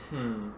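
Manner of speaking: low, soft thoughtful "hmm"; pondering murmur; musing hum. A narrator's reading. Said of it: "Kazuto mused".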